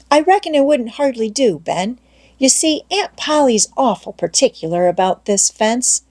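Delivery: a hint of a sly boy protesting; Tom, coy refusal. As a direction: hold him off while baiting him. Tom refuses Ben, playing coy.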